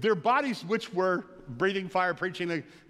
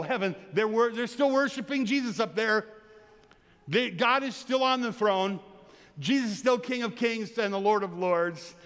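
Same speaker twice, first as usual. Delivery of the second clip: higher, louder anxious prayer reaching for comfort; a distressed churchgoer crying out to God, raised and urgent; pleading believer's prayer; 5 semitones higher, 3 dB louder than usual. Retold or imitated. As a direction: pray like someone overwhelmed by woe.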